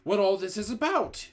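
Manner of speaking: high, loud, angry demand; boy shouting at the witches, high and loud. A narrator's reading. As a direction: yell at the crowd for answers. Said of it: "shouted Bruno".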